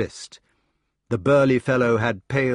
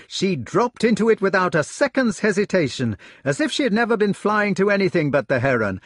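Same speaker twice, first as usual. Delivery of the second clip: high, fast, breathless enthusiasm; a young man who can't stop talking about his hawk; eager retelling; 8 semitones higher, 4 dB louder than usual. Acted. Gareth telling his brothers of the flight, eager and high.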